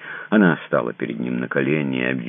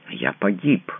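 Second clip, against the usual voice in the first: moaning; 6 semitones higher, slower than usual. A narrator's reading. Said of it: "а простонал он".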